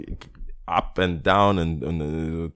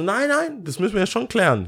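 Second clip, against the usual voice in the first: high, hammed-up insisting; mock insistent lawyer; 11 semitones higher than usual. Arguing for her with the bouncers, hammed-up insistence. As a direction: play the self-appointed lawyer. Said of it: "die, wir wollen nicht so".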